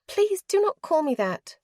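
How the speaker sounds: hissed. A narrator's reading. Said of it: "she hissed".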